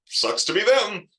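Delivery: high, loud mock shrug; dismissive reader. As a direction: brush it off like a bored reader. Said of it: "and be like".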